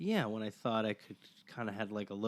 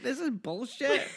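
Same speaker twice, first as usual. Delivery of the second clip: put-on much higher, slow Scottish accent; Scottish man; 14 semitones higher than usual. Scottish local dismissing the fake Scots, slow Scottish accent. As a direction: drawl out the verdict as a Scot. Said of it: "he's like".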